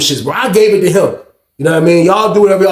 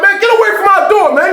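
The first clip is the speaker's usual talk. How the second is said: retold yell. Roommate yells back.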